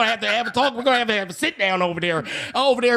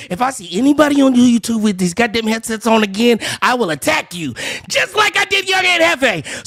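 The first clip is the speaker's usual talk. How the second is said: angry shout; 5 dB louder than usual. Real, not acted. Threatening rant.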